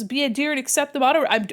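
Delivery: ordinary delivery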